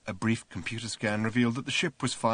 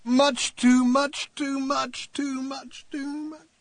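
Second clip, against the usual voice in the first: moaning, fading; 5 dB louder, much slower than usual. Acted. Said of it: "moaning quietly".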